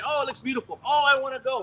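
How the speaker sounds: a newcomer gushing about mission trips, mock-eager; naive eager tourist. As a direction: play the dreamy newcomer. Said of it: "you say".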